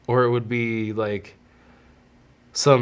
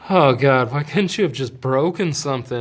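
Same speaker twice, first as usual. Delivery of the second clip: exasperated mock lament, pitched up and loud at first; retold freak-out; 3 semitones higher, 4 dB louder than usual. Man reacting to pregnancy tests, mock freaking out. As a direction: groan it out as a retold moment of dread. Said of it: "freaking out".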